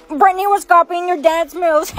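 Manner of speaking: laughing through the words; giggling at someone's blunder; amused laugh. Acted. Laughing at the mistake.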